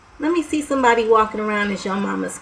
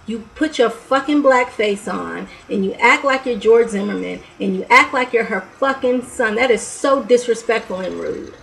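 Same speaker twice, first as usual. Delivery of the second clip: loud, heated scolding of the mockers; angry rant; 3 semitones higher, 6 dB louder than usual. Real, not acted. Vlogger scolding people who mock victims, angry and loud. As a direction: give it to them hard, furious.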